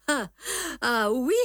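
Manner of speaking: a touch of disdain, offhand; disdainful. A narrator's reading. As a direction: brush the name aside with mild contempt. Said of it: "assez dédaigneusement". (légèrement dédaigneux)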